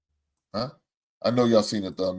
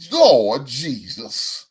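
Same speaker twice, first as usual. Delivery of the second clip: a rapper's catchphrase; 4 dB louder, much slower than usual. Retold or imitated. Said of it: "In the words of my man".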